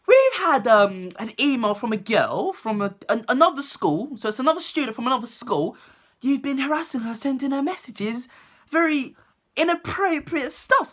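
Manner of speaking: high prim telling-off voice; a hammed-up stern teacher, high; mock teacher voice.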